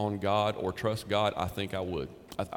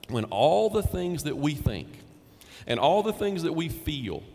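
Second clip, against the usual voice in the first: building preacher's crescendo; 5 semitones higher than usual. Acted. Building list of all the things.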